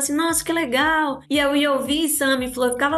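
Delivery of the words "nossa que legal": slow, higher-pitched retold admiration; polite mock enthusiasm. Miriam responds to someone pitching a project, polite enthusiasm. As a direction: draw it out like politely encouraging someone.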